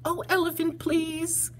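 high, hushed mouse voice; whispery plea. Acted. Mouse pleads for soft laughter.

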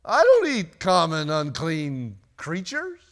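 loud refusal that slows and fades; Peter refusing. Acted. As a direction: refuse firmly, then trail off slowly. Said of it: "But Peter said".

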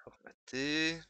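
whispered. Real, not acted. Editor formatting a page, whispering to himself. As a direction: whisper the word to yourself. Muttering while editing.

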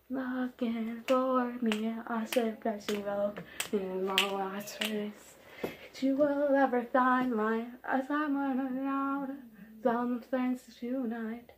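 very soft, slow whispery voice; mock ASMR whisper. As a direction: breathe it slowly like ASMR.

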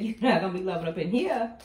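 loud, sassy mock outrage; pissed-off queen. Tarot reader voicing the Queen banning lovers, mock angry. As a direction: lay down the law as the angry queen. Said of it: "the Queen is pissed".

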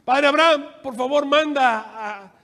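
loud opening call, slowing into a request; acted plea to someone far above; rich man pleading. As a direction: call out, then ask slowly. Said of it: "¿Y qué pide el rico?".

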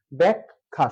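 "ব্যাখ্যা" in two beats, byak-kha; correct pronunciation demo. Shown as a demonstration. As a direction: hold the k before kha in "ব্যাখ্যা". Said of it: "সঠিক উচ্চারণ হচ্ছে ব্যাখ্যা". ("ব্যাখ্যা" দুই ভাগে ব্যাক-খা)

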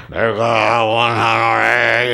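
slow, stiff, solemn Bible reading; overly solemn. Shown as a demonstration. Preacher mocks solemn reading to congregation, stiff and slow. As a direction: intone it like a stuffy scripture reading. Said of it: "이런 식으로 읽지 말란 말이에요".

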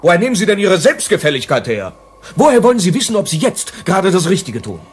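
attack his smugness, voice rising; heated challenge. Acted. Rossi attacking Whittleby's complacency, heated and rising.

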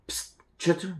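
soft, sneaky aside to the cat; hissed psst. Acted. Harold hisses at Chester on the sly, soft psst. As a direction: call him over without anyone hearing.

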